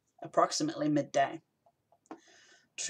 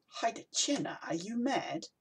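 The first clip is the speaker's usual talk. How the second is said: put-on a light Naradan-like accent, incredulous; 7 semitones higher, 4 dB quieter than usual. A narrator's reading. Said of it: "in his Naradan-like accent".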